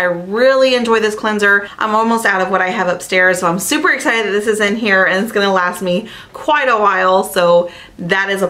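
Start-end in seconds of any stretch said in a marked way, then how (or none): none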